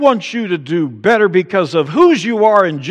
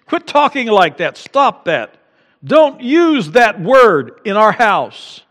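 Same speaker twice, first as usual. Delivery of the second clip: high, loud, slow mock mother; scolding mom; 6 semitones higher, 5 dB louder than usual. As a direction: scold like a mom hearing a bad word. Mom scolding bad language.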